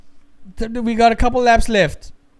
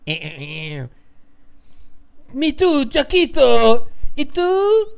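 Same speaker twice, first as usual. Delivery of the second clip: hammed-up soap opera lovers, higher; telenovela voice; 5 semitones higher than usual. Imagining Ferrari drama as a soap opera, hammed-up. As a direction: play a saucy telenovela scene. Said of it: "novella where the drama is hot".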